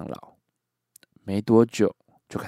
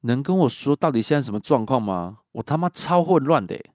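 baffled; 6 semitones higher, 5 dB louder than usual. Retold or imitated. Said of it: "我满头问号的询问他说".

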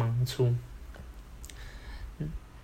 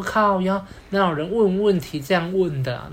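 shocked inner outburst; 5 semitones higher than usual. Retold or imitated. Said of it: "那我就吓到".

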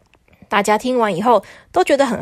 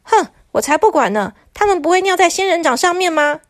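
angry; 6 semitones higher than usual. Acted. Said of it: "很生气的说".

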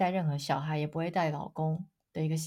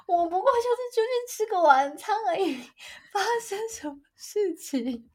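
high, loud, laughing protest; hammed-up incredulity, stretched out slowly at the end; exasperated disbelief; 11 semitones higher, 6 dB louder, slower than usual. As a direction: wail it in comic exasperation. Exasperated inner reaction, retold.

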